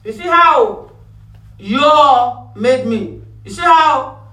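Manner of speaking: high wailing devil blaming everyone; accusing devil. Acted. The devil blames the people, crying and shouting high. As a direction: wail like a devil crying foul. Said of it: "The devil".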